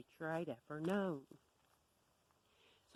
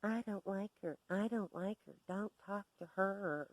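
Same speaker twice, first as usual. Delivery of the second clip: put-on slightly raised childish complaint; mock squealing; 2 semitones higher than usual. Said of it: "stomp around squealing".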